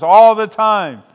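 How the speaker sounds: loud, high, slow shouted reply; pastor's response. Retold or imitated. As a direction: call it back to the congregation. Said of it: "And the pastor says".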